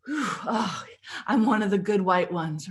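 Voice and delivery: mock relief, lightly self-mocking; tongue-in-cheek pat on your own back; sarcastic. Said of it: "I'm being sarcastic".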